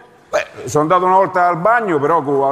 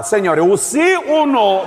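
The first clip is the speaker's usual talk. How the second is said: demanding officer; 3 semitones higher, slower than usual. Acted.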